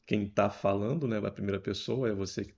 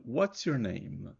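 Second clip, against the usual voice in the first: slow demo; much slower than usual. Shown as a demonstration. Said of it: "eu pergunto pelo nome dela".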